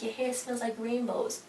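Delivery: high, soft, slow dreamy imitation; creepy superfan. Superfan smelling her idol's hair, creepy soft coo. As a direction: coo it slowly like an obsessed fan.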